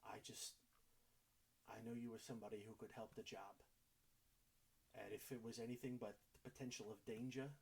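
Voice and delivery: soft, slightly subdued pleading; quiet, heartfelt assurance; earnest sincerity. Acted. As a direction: apologise as sincerely as you can muster. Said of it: "as much sincerity as he can muster".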